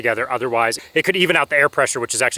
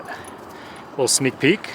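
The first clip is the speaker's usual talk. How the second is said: slow, secretive whisper; 7 dB quieter, much slower than usual. Real, not acted. Teasing a reveal of the van.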